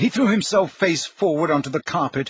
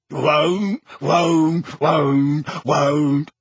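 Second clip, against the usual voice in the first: stubborn elf; much slower than usual. A narrator's reading. House elf refusing over and over. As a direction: repeat it stubbornly.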